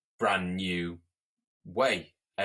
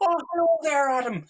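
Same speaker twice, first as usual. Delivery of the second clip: high, louder mock Russian "hello there, Adam"; bad Russian accent; 7 dB louder than usual. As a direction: fake a Russian that comes out Irish. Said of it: "some Russian bloke at work".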